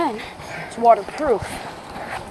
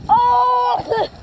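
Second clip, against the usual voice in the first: laughing; 7 semitones higher than usual. Real, not acted. Soaked by wave of water.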